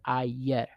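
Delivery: ayer as "ah-YER"; pronunciation demo. Shown as a demonstration. Teacher giving the example, ayer said "ah-YER". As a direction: say ayer with "yeh" inside. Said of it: "it makes the ye sound".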